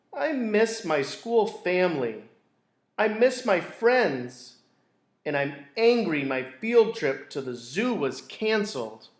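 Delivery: a hint of tearful child; upset little girl. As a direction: play a sad little sister. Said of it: "She cried".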